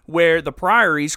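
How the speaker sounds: hammed-up menacing ask; mildly hammed slow Silas threat; Silas taunting. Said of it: "And Silas is like".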